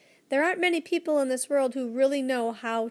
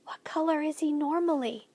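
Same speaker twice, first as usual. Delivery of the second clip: hushed unvoiced whisper; 4 semitones higher than usual. Lindy asking the professor, in a hushed whisper. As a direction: breathe the question under your breath. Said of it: "Lindy whispered".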